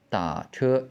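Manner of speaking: "Da" falls low and stops before rising, then level "che"; low, unfinished third tone on "Da", first tone on "che"; half third tone. Shown as a demonstration. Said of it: "We don't say, uh, the, the second half".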